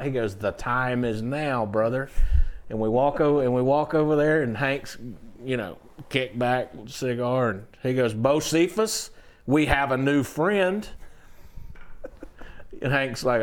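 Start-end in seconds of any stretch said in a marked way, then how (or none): 0.4-2.1 slow singer's voice. Retold or imitated. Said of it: "and he talked like this". 8.1-10.9 a singer's voice. Retold or imitated. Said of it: "and he talked like this".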